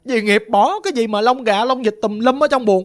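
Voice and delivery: put-on a little girl insisting on what she saw; child tattling. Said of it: "Chị mới nói không".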